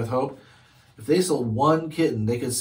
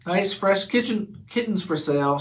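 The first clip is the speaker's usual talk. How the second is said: calling out; 5 semitones higher than usual. Acted. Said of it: "she called out".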